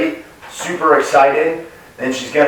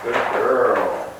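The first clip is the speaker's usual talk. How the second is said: soft praise; 4 dB quieter than usual. Real, not acted. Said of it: "show you guys one more time".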